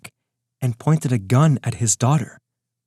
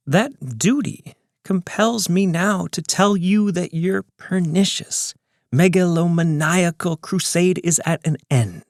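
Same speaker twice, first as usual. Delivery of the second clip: higher, taunting villain, unhurried; smug villain voice; 5 semitones higher than usual. Acted. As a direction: gloat like a calm mastermind. Villain Ron's taunting speech.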